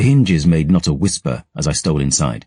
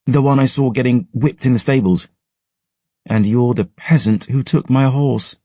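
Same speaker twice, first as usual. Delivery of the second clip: put-on higher haughty young lady voice; haughty noble girl; 8 semitones higher than usual. Noble novice snubs the boy who took her horse, haughty and high. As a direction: look down your nose at him, higher.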